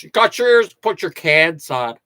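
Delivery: hammed-up silly studio-engineer voice; stupid buddy voice. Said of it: "that's a stupid voice I do".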